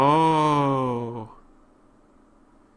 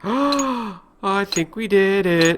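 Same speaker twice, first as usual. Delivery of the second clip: excited; 3 semitones higher, 5 dB louder, much slower than usual. Real, not acted. Solving the puzzle, gasp.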